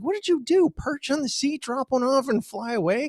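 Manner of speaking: high mock taunt; mock teasing question. Teasing wife.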